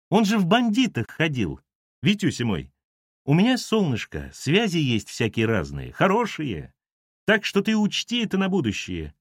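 sugary threat, pitch often lifted; a hint of a taunting mistress; lightly voiced menacing woman. Ира угрожает Лавровскому в диалоге.

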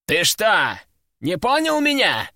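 rising up high in disbelief; can't believe he's being crossed; surprised aristocrat. A narrator's reading. Аристократ изумлённо переспрашивает героя, удивлённо. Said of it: "удивился аристократ".

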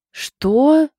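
high, loud amused "what?"; surprised with laughter behind it; gleeful exclamation; amused surprise. A narrator's reading. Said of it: "воскликнула Лена с искорками смеха".

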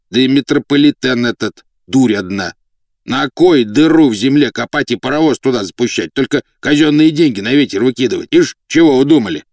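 громкая, высокая возмущённая тирада; распекай хозяина за пустую затею; ворчливый слуга-деспот. Acted. Слуга отчитывает князя. (возмущённо, ворчливо)

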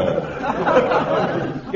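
short breathy nervous laugh. Acted. Clerk laughing nervously before his officer. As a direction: laugh off the nerves while trying to stay calm.

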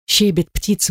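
ordinary delivery, nothing marked

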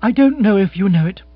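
coolly indignant woman; mildly icy, firmly voiced; cold retort. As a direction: say it with cold displeasure. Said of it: "she said coldly".

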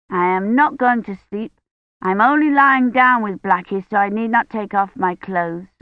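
put-on high, insistent little girl; stubborn child. Agnes insists she won't sleep, high child voice. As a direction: argue your way out of bedtime.

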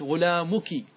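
teacher modelling "ki" at the end of غلامك; kaf with kasra. Shown as a demonstration. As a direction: say غلامك as "ghulāmuki". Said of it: "اجعل الكاف مكسورة".

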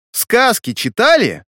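выше и медленно, с вызовом; прокричать на всю кают-компанию; громкий крик. A narrator's reading. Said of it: "Громко-пригромко закричала она". (громко, с вызовом)

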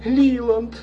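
high calls of the husband's name; alarmed shout. Acted. Wife calls her husband at the grave, alarmed shout. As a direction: call out to him in alarm. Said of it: "кричала миссис Палмер".

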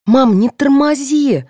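high, loud, drawn-out nagging; demanding. A narrator's reading. Daughter hurrying mother at the search, demanding. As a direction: press mother impatiently. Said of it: "потребовала дочь".

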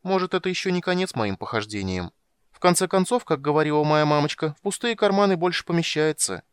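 high, quick and chirpy; bright young kender, very high. Acted. Tas voiced high.

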